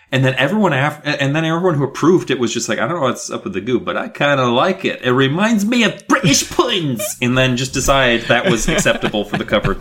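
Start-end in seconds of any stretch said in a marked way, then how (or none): 2.8-7.0 a bad, hammed-up British accent, fast; lightly mock British, rushing the words; terrible British accent. Cover approvers in a rushed, bad British accent. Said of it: "that terrible accent".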